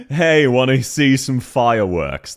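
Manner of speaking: Australian accent. Shown as a demonstration. Streamer showing how an Australian would pronounce it, slow Australian accent. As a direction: say it slowly in an Aussie accent. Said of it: "how we'd pronounce it in an Australian voice accent".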